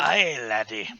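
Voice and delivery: put-on Scottish groundskeeper accent. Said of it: "You should have said it in, like, a Scottish accent".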